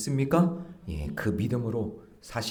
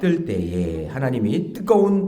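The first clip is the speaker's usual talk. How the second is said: loud, measured congregational reading; scripture read-aloud; 6 dB louder than usual. Real, not acted. Preacher leading worshippers in reading Jonah, loud recitation. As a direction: lead the congregation through the verse.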